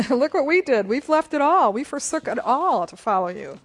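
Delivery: insistent follower demanding recognition; Peter. Acted. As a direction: plead your case emphatically. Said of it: "Peter says".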